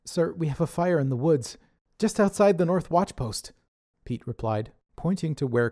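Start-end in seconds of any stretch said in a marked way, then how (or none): 0.0-3.5 urgent. Acted. Pete reporting fire.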